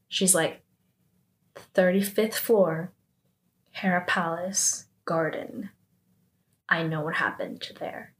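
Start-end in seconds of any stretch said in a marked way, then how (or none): 1.7-8.1 retold blackmail. Min Sora revealing what she knows, quietly threatening. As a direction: let each piece drop quietly, pausing between. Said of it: "basically starts to blackmail".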